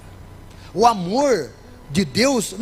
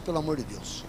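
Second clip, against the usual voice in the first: muttered aside; 6 semitones lower, 10 dB quieter than usual. Retold or imitated. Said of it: "até o ateu às vezes fala".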